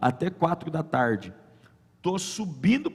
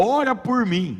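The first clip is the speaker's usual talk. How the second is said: retold plea; 7 semitones higher, 4 dB louder, slower than usual. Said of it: "Eu falei bem assim".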